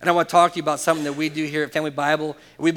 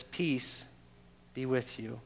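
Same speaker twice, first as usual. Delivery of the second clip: much softer, gentle blessing; soft greeting; 3 semitones lower, 10 dB quieter, slower than usual. Retold or imitated. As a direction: say it as if only to those near you. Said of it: "he says the same thing".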